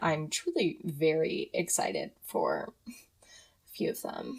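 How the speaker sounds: talking through giggles, words drawn out. Introducing viewer questions, laughing while talking. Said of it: "I'm laughing".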